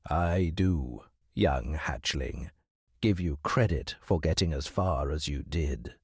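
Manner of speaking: measured stern voice. Acted. Hawk speaking.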